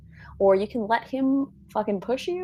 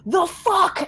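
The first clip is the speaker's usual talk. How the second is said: high, louder startled exclamation; 10 semitones higher, 4 dB louder than usual. Acted. Boy realizing who is facing him, startled. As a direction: blurt it out in shocked alarm.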